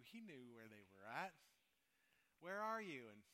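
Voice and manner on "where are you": calling out. Retold or imitated. God calling out again.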